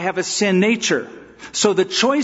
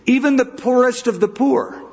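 emphatic climax; 8 semitones higher than usual. Real, not acted. Preacher's climax.

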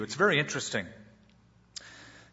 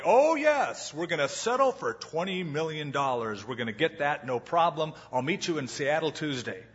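mock loud phone talk. Lawyer faking a big deal call to impress, loud. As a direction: show off loudly on the phone. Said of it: "he says really loudly".

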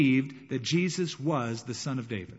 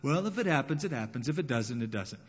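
indifferent shrug; 3 dB quieter than usual. Retold or imitated. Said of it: "It wasn't".

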